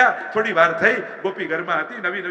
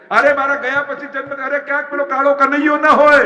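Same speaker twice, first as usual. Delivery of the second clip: high, loud, startled realisation; loud and high, suddenly alarmed; 6 semitones higher, 7 dB louder than usual. Acted. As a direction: it dawns on her, burst out.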